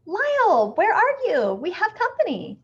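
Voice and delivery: high, loud call through the house; searching call, getting worried; calling again. A narrator's reading. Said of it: "Missus Prim called again".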